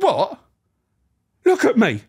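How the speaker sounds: high, loud mock outrage; acted indignant prisoner. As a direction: squeak it out like an offended con. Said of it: "Like this".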